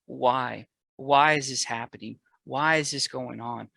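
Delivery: loud pleading why to the Lord; begging cry. Retold or imitated. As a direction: beg the Lord for an answer, loud. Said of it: "I would beg and I would cry".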